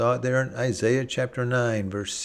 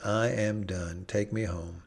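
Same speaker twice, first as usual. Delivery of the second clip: weary surrender; 2 semitones lower, 6 dB quieter than usual. Acted. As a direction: let it sink, exhausted. Elijah giving up.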